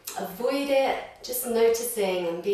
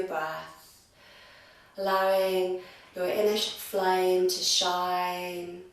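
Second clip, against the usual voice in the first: guided meditation. Real, not acted. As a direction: gently lead them inward, drawing out the words.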